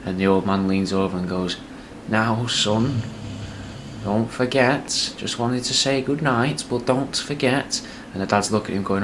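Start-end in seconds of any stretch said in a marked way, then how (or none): 2.1-7.8 put-on higher, slow doddering old man; creaky old father, drawn out and pleading; old dad voice. Old dad to son in bed, slow doddering whisper-soft reminder.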